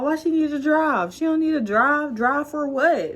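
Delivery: high disbelieving pleas; incredulous. Real, not acted. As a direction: beg the universe she won't drive. Pleading with herself, high pitch.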